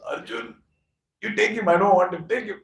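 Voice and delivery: hushed call rising into urgent, high pleading; silently willing someone to agree, fingers crossed; strained, anxious mock plea; pleading inner wish. Silent desperate wish in Duryodhan's heart.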